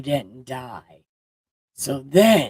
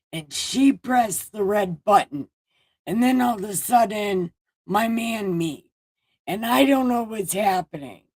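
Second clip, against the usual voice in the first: high, whiny, near-tearful ranting; mock breakdown; 5 semitones higher than usual. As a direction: wail it out like a man falling apart. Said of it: "And then Adam broke down".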